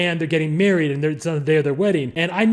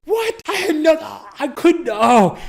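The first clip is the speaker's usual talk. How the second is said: high-pitched, loud, stammering disbelief; hammed-up outraged shock, words breaking off; appalled protest; 11 semitones higher, 5 dB louder, slower than usual. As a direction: squawk a horrified denial. Acts out appalled denial of co-writing.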